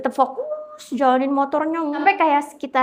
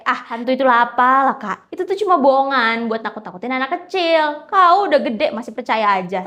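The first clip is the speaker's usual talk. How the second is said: louder, dismissive scoff at ghost talk; scoffing brush-off; 5 dB louder than usual. Retold or imitated. Bang Jack brushing off his sister's warning, cocky and loud. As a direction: wave it away with a cocky laugh in the voice.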